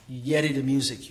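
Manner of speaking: Gullah-accented line. Shown as a demonstration. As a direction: say it in Gullah patois. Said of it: "Gullah, I would say patois".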